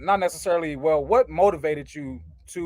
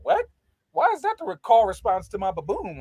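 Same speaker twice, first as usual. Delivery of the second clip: high-pitched incredulous questioning; lightly hammed-up confusion; mock bafflement; 5 semitones higher than usual. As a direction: act out baffled disbelief, pitch jumping up. Acting out a baffled reaction.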